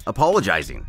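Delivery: usual speaking voice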